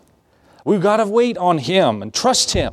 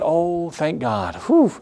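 relieved sigh; 2 semitones higher, slower than usual. Retold or imitated. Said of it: "they sat back and said".

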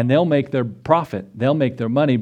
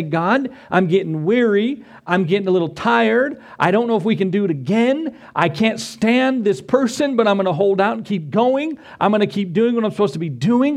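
weary prayer; 6 semitones higher than usual. Shown as a demonstration. Model prayer of weary believer.

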